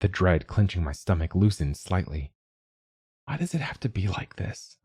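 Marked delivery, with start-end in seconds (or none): 3.2-4.8 hushed, trembling question; whispered. A narrator's reading. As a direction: whisper it in despair. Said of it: "I whispered".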